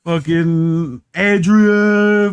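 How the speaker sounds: very slow drawn-out Rocky call; Stallone voice. Retold or imitated. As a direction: stretch out Adrian like Rocky. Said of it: "sound like Stallone".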